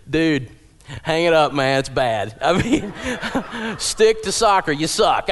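loud, laughing blunt verdict to his son; a dad bluntly telling his son he sucks. Retold or imitated.

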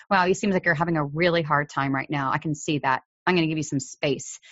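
quiet, understanding tone; soft empathy. Shown as a demonstration. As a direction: parent to upset child, softly offering space. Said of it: "So if you say".

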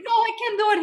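high, loud half-laughing sob; tearful refusal. Retold or imitated. Dancer refusing Edward backstage, high tearful protest.

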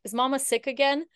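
a hint of a worried little son; child's voice. Son voiced in sad story.

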